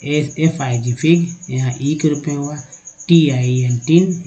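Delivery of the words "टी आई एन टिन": letters slowly, then टिन; slow spelling demo. Shown as a demonstration. Teacher spells words to show vowel sounds. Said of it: "बड़ी ई के रूप में हुआ".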